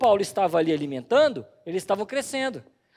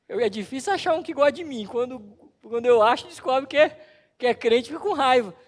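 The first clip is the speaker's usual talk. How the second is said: loud lament; 4 semitones higher, 6 dB louder than usual. Retold or imitated. Colleague laments.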